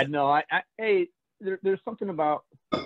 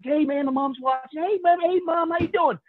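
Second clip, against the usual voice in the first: imitated mom greeting; 7 semitones higher than usual. Acts out Josh greeting watching mom.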